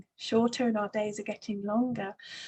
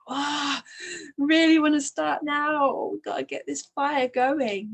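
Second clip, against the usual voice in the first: raised, louder voice of restless eagerness; impatient urgency; 5 semitones higher, 3 dB louder than usual. Acted. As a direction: act out bursting to get going. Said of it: "this shaking up and this pressure".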